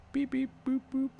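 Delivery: high robot beeping; robot beeps. A narrator's reading. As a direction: beep like a robot. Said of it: "It's just beeping".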